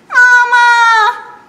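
high wailing call of mama; piglet crying for mama. Acted. Lost piglet calling for mama, high wail. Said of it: "said Piglet".

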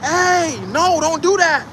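warning yell. Shown as a demonstration. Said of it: "you're yelling".

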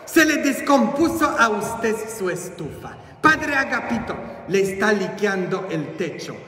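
high-pitched running complaint, easing down; fretful housekeeper. Acted. Housekeeper runs to tell the priest of broken things, fretful calling. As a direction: call out high, then tail off. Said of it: "doña Concha siempre corría y decía".

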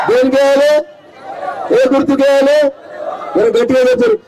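projected rally voice, pausing for the crowd's answer; rousing rally questions. Real, not acted. (జనాన్ని ఉత్సాహపరిచే సభా ప్రశ్నలు)

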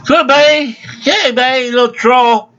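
high-pitched mocking clerk voice; mocking impression. Customer making fun of the store's little guy, high mocking voice. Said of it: "I didn't make fun of him".

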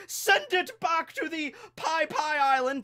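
high, slow, whiny critic voice; snooty food critic. Pretend. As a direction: sneer it like a snobby gourmet. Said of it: "That's how I imagine he talks".

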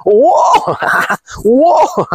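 high yelped whoa; mock girly shriek. Mocking a girl crashing her car, high shriek. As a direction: squeal like a startled airhead.

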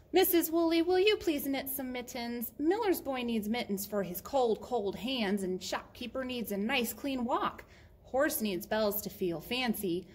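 earnest little favour-seeker; pleading Murray, lightly voiced. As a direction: list everyone's needs, lifting at your own. Story figure begs a favour.

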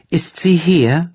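slow, high, keen gossip question; eager question. A narrator's reading. Blonde asking eagerly whether the wife is here. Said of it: "fragte die Blondine eifrig".

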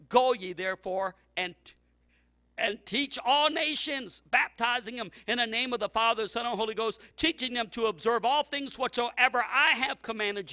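preacher at full force; preaching shout. Acted. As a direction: cry out the great commission. Preacher quoting scripture at full force.

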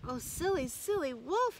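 high mock-sorrowful chiding; sad reproach. A narrator's reading. Boy pitying the laden wolf, high mock-sad reproach. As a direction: tut in mock pity. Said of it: "shaking his head sadly".

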